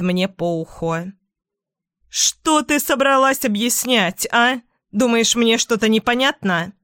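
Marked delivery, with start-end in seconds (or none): 2.1-6.7 angry scolding. Acted. Mother furious at caught daughter.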